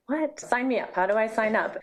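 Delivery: quick-to-volunteer excitement, retold; retold eager surprise. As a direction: recall jumping at the chance to join. Retold eager reaction on first hearing.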